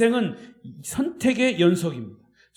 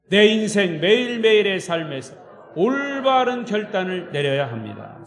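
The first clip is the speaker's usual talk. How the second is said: louder, emphatic group declaration; a confident pledge spoken together; declared in unison; 7 dB louder than usual. Shown as a demonstration. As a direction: lead the congregation in a strong resolution. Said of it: "시작".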